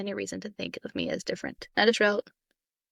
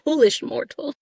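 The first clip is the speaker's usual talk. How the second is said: dark lord; 4 semitones higher, 6 dB louder than usual. Pretend. Answering villain line, louder.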